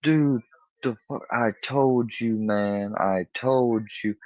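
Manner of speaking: flipping out. Retold or imitated. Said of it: "starts flipping".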